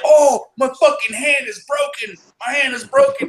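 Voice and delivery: high, drawn-out mock wail of pain; hurt buddy's wailing. Army buddy after punching him, mock pained wail. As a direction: mimic a man howling over his injured hand. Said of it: "he starts like".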